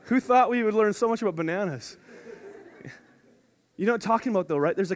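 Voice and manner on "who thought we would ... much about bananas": laughing. Real, not acted. Laughing at his own joke.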